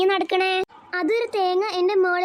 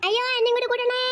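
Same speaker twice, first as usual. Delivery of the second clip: panicked plea; 5 semitones higher, faster than usual. Acted. Fleeing child pleads.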